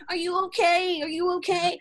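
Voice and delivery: high-pitched concerned mother; fussing mommy. Retold or imitated. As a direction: imitate a mom checking on her baby. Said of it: "needed mommy to be like".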